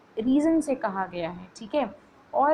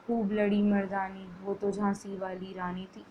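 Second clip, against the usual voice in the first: a lifeless, softer run through the line with no pride; plain dull recital; 3 semitones lower, 4 dB quieter than usual. Shown as a demonstration. Teacher shows students the wrong way, dull recital. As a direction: recite it like a bored paragraph read. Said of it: "एकदम प्लेन तरीके से अगर आप पढ़ोगे".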